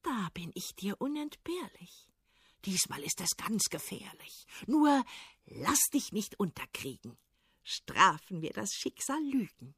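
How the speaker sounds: soft, secretive helper voice; hushed, reassuring little humpbacked horse; little horse whispering. Acted. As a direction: confide quietly to Ivan.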